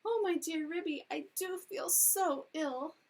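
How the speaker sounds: high, loud wailing lament; howling. A narrator's reading. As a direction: howl it out, dragging the words slowly. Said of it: "Duchess set up a howl".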